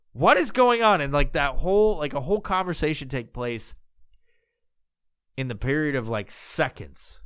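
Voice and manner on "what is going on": high, loud baffled outburst; bewildered. Retold or imitated. Host voices the thoughts of someone thrown off, bewildered. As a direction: imitate someone thrown completely off.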